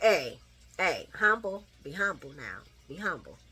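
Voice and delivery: mock mama scolding. Voicing Willow scolding kids.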